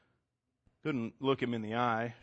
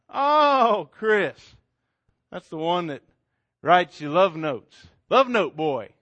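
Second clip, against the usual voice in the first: loud, higher sneering taunt; mocking; 4 semitones higher, 7 dB louder, slower than usual. Drunk boyfriend taunting Chris, loud mocking sneer. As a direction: make fun of the lovesick kid.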